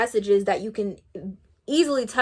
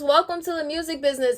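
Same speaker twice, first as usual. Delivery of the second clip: mocking quote; 6 semitones higher than usual. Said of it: "and laughed at me".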